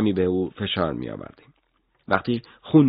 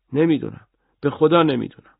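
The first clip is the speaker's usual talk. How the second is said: higher, louder swearing by God; desperate pleading; 8 semitones higher, 4 dB louder than usual. Acted. Arrested boy begging the interrogator to believe him. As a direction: plead for your life.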